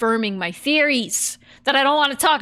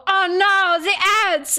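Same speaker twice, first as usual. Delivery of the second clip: higher and louder mock alarm; mock panic; 9 semitones higher, 4 dB louder than usual. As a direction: pretend the chat is panicking. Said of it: "had people go".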